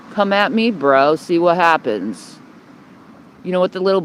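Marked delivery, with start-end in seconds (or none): 0.1-2.4 retold challenge. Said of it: "I got right in the middle and I said".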